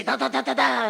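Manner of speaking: rhythmic run of nonsense syllables; punchy stand-in babble for speech; imitated enthusiastic syllables. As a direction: mimic lively speech with "da da da". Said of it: "if you do it enthusiastically".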